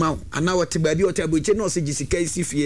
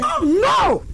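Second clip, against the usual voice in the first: mock dismay; 4 dB louder than usual.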